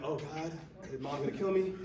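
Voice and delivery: mock dread with a laugh; laughing worry. Coach sending the small player in, laughing nervously. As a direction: joke about the mom through a laugh. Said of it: "And I'm like".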